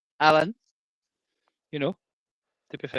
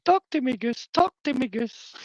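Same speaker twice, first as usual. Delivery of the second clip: much higher, urgent pilot's plea; movie quote impression; 10 semitones higher than usual. Streamer jokes about an airplane, urgent pilot voice. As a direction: call out like a pilot in the cockpit. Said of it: "it'd be like".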